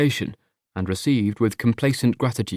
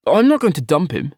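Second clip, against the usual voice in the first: louder, insistent denial; a bit too loud; 5 semitones higher, 6 dB louder than usual. Acted. Partner defending his boyfriend, too loud. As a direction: blurt it out too forcefully. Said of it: "probably slightly too loudly".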